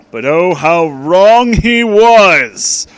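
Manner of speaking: loud, slow, hammed-up exclaim; dramatic reveal. A narrator's reading. Narrator announces the reveal, hammed-up drama. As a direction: swing it big for the twist.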